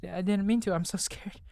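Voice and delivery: put-on panicked scared boy. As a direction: plead and stumble, terrified and guilty. Voices panicked game dialogue.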